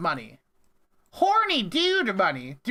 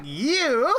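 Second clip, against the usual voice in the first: mock robot voice; 6 semitones higher, slower than usual. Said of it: "They're gonna be like".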